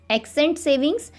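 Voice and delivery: "accent savings" said slowly with a rising end; slow, deliberate repeat. Shown as a demonstration. Teacher repeating the term to students, slowly. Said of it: "teacher repeats term slowly".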